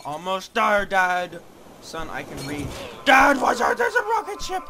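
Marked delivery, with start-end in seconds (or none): 3.1-4.7 much higher, louder laughing warning; laughing shout. Acted. Son warning dad about a rocket, laughing shout. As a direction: yell a warning through laughter.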